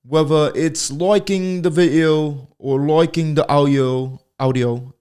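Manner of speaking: "audio" stretched and drawn out, said oddly. Real, not acted. Urging fans to like, a quirky "audio". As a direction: lean into "audio" with a strange twist. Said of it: "I don't know why I said it like that".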